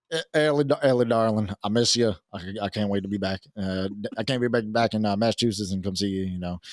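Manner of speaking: lightly voiced, halting Southern sweet-talker; impression of guest. Host imitating guest missing Ellie on the phone, light Southern impression. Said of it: "That's your impression of me?".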